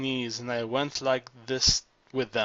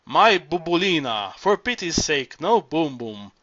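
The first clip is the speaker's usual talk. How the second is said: crying out; 2 semitones higher, 3 dB louder than usual. Acted. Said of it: "and he cried".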